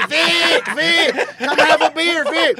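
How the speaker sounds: high, loud calls across a room; calling out excitedly. Retold or imitated. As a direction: holler for a friend to come over. Women waving him over, calling out.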